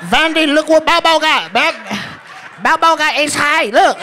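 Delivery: very high, excited mock Asian dealer accent; hammed-up Asian dealer, squealed high; happy Asian dealer. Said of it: "be so happy when you win".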